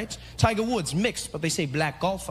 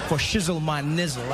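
black American; 3 semitones lower than usual. Retold or imitated. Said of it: "I was fluent in my black American".

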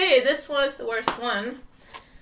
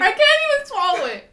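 disgusted, mouth full; 12 semitones higher, 10 dB louder, faster than usual. Real, not acted. Tasting a disgusting jelly bean.

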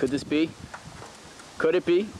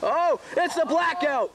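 dramatic move call; 7 semitones higher, slower than usual. Acted. Commentator calls the finishing move.

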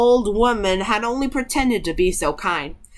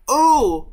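short, high, louder "ooh" howl; mild storyteller's howl of pain; 5 semitones higher, 5 dB louder than usual. A narrator's reading. Witch shut in the oven, brief howl. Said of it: "began to howl quite horribly".

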